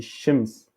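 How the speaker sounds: "shims" with a final s; sh first, plain s last in "shims"; prononciation juste. Shown as a demonstration. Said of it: "la réponse qui est juste". (« shims » terminé par un s)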